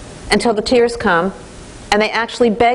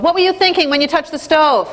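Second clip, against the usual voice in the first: mock scolding; 6 semitones higher than usual. Shown as a demonstration. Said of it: "We don't say to a two-year-old".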